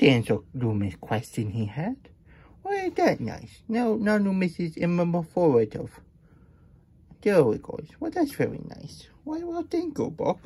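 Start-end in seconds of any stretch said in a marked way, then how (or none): 2.6-10.4 high puppet voice. Pretend. Puppet character voice.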